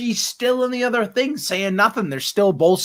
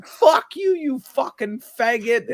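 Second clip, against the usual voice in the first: higher-pitched mock-angry insult; mad retold outburst; 4 semitones higher, slower than usual. Retelling Jay's mad insult to the others, angry imitation. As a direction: imitate an outburst, starting high then easing. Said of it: "fucking mad".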